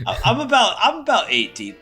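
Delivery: giggling, high-pitched and loud through the words; real giggle breaking into the words; tipsy laughing. Real, not acted. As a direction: laugh it out, a bit buzzed. Laughing, tipsy after pre-drinking.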